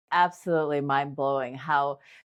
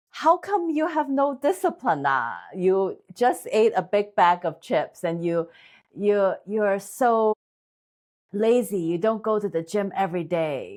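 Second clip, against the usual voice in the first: put-on Asian accent; 2 semitones higher than usual. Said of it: "I'm gonna do my best, like, Asian accent".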